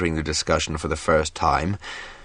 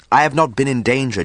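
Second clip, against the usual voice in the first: higher, louder protest; 8 semitones higher, 5 dB louder, faster than usual. A narrator's reading. Jackson protests to Lessa that he is safe, louder. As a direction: push back hard against the accusation. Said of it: "Jackson protested".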